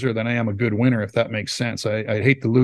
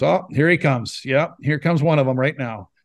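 talking past someone; 3 semitones higher than usual. Retold or imitated. Teammate grumbles about whoever walks in, imitated talking past them. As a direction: remark aloud as if the person isn't there. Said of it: "loved to talk like you weren't in the room".

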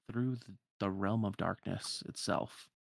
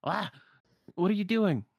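higher, louder startled yelp; startled Donald; 9 semitones higher, 7 dB louder than usual. Acted. Donald jumps at Sora walking off, startled and loud. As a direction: jump and demand an explanation, raised voice. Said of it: "Donald sort of jumps and goes".

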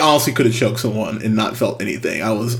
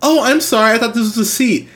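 mock apologetic lady; 10 semitones higher, faster than usual. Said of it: "And she's like".

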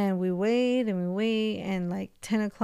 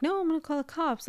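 higher, fast imitation of insistent aunt; mock stubborn aunt; 8 semitones higher, faster than usual. Aunt insisting on calling police.

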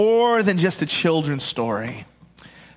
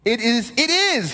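higher, insistent retort; petulant Jonah; 5 semitones higher than usual. Acted. Pastor voicing Jonah snapping back at God, insistent. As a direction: shoot back stubbornly. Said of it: "he said".

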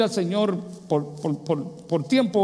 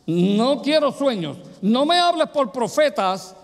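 insistent demand; 6 semitones higher, slower than usual. Retold or imitated. Preacher retells his bargain with God.

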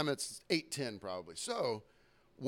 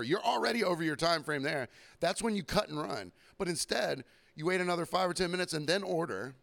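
mock rant; 5 semitones higher than usual. Imagined rant at customer.

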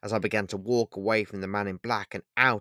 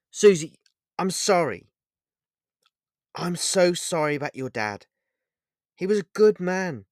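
higher, louder apology called after her; shouted apology; 7 semitones higher, 5 dB louder than usual. Acted. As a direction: call the apology out as she leaves. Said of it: "the man in black shouted".

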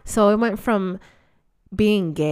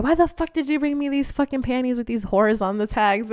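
mildly scolding grandma, pitched higher; blunt grandma; 6 semitones higher than usual. Retold or imitated. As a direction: lightly act out an indignant, blunt telling-off. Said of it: "very blunt".

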